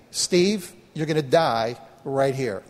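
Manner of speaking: slow, dropping pitch on a grim verdict; ominous inner voice. Retold or imitated. Voice heard by pastor in freezing water, ominous. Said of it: "I heard a voice say to me".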